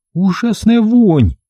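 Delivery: high, slow disgusted remark; high drawn-out female disgust; disgusted woman. A narrator's reading. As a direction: recoil at the stench. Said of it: "заметила Верещагина".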